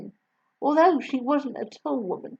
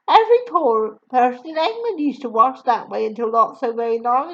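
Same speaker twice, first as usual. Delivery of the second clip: put-on higher, louder gentle young woman; kind teacher voice; 4 semitones higher, 6 dB louder than usual. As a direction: warm young teacher reassuring. Miss Honey voiced.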